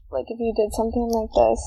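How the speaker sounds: muffled, talking into a cup. Real, not acted. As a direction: speak with a cup over your mouth. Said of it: "It sounds like you're talking into a cup".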